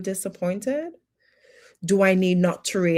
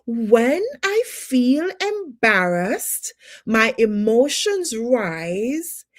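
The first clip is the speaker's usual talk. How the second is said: acted revelation; 5 semitones higher, slower than usual. Acted sudden self-discovery.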